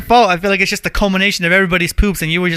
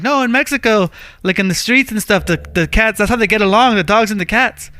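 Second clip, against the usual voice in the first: a hint of the uncle, raised and matter-of-fact; imitating the uncle; 4 semitones higher than usual. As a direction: lightly voice the uncle explaining it casually. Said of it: "He's like".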